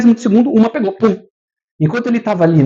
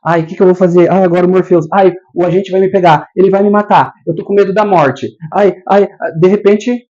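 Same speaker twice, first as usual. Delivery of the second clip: mock frightened whining; 4 dB louder than usual. Voicing a frightened Neo.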